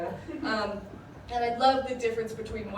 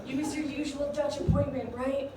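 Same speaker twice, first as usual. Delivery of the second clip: raised, higher voice, fed up with the therapist; exasperated outburst; 5 semitones higher than usual. Retold or imitated. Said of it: "And I was like".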